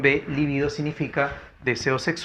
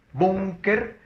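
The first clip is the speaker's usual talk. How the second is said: syllable by syllable; 6 semitones higher than usual. Shown as a demonstration. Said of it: "Búnker es grave".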